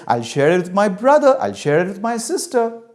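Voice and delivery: high, loud run of eager offers; eager child. Acted. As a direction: rattle off promises to please mother. Child eagerly lists who shares.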